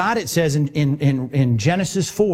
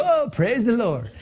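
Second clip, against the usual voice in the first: slow, laughing fake delight; sarcastic laughing praise; mock praise; 6 semitones higher, slower than usual. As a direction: pretend to be thrilled, chuckling. Mock joy at car being towed.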